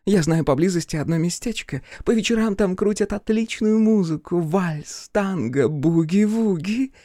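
block his way with a tipsy leer. Acted.

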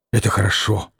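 low, scraping voice; a dark, grating rasp. A narrator's reading. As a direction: grind the words out low. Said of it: "как-то проскрежетала Лиза".

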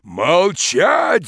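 loud booming order; thundering command. Acted. Forester silencing the peasant, thundering command. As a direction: silence him with one roar. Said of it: "загремел лесник".

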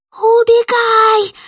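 very high, loud, slow cry; distant scream. Acted. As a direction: shout a warning from afar. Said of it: "откуда-то издалека прокричала Руська". (далёкий пронзительный крик)

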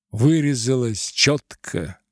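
ordinary delivery

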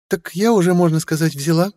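put-on high, sly young woman; young woman's voice. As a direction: tease with sly charm. Stella claims him.

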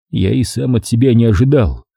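usual speaking voice

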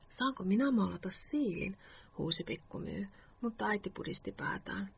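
measured story-reading voice; bedtime story narration. A narrator's reading. Host reads a Moomin bedtime story to listeners, story narration. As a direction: read it out as an evening story.

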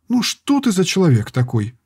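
high, exasperated scolding; scolding girl. A narrator's reading. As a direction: scold him across the room. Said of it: "шумела девушка".

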